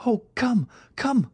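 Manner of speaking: very high pleading cry; high, anxious summons; desperate urging. A narrator's reading. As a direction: beg them to come, pitch soaring. Desperate call for help.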